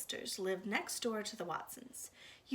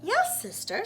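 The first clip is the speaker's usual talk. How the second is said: high, eager little agreeing voice; meek younger sister; 12 semitones higher, 7 dB louder than usual. Acted. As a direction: agree sweetly and quickly. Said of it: "says Baby".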